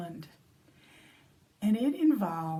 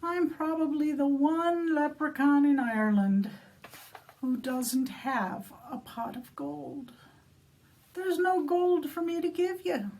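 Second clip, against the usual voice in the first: woeful leprechaun; 4 semitones higher than usual. Acted. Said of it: "And he said".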